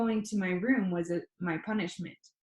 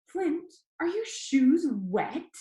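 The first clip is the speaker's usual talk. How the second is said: calling grandma; 8 semitones higher, slower than usual. A narrator's reading.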